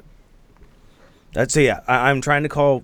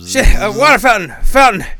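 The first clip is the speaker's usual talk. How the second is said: panicked shout; 7 semitones higher, 8 dB louder than usual. Acted. Panicked shout spotting fountain.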